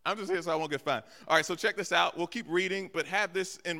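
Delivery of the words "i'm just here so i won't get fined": quoting Marshawn Lynch. Retold or imitated. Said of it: "got famous for this statement where he says".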